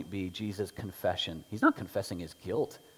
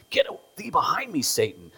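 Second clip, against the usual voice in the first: much higher, louder stern rebuke; Jesus rebuking Peter, stern and loud; Jesus' rebuke; 7 semitones higher, 8 dB louder than usual. Retold or imitated. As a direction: rebuke with force.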